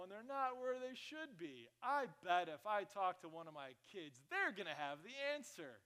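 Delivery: mock-cheerful, slowed sweetness; overly nice with a touch of sarcasm; fake positivity. Pastor mocking a sugary reply about the scissors.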